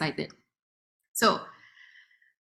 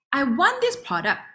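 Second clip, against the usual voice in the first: uncle voiced; 4 semitones higher than usual. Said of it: "And then he said".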